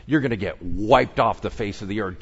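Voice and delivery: ordinary delivery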